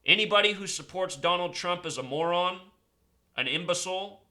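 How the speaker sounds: loud, urgent rant to his viewers; a fired-up conspiracy vlogger rallying followers. Acted. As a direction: rail against the elites like a street preacher.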